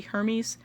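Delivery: HERMES said HER-meez; American "Hermes", stressed on HER; American pronunciation. Shown as a demonstration. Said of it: "speak like an American".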